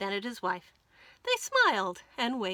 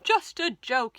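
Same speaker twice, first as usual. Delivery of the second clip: chuckling fox; chortling; 3 semitones higher, 7 dB louder than usual. A narrator's reading. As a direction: laugh it off slyly. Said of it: "he chortled".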